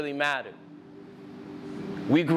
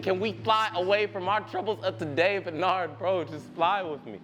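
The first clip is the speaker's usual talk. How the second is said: higher-pitched, impassioned plea; urgent pleading; 3 semitones higher than usual. Acted. Poet begging his lost best friend to return, pleading. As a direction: beg him to come back, words pouring out.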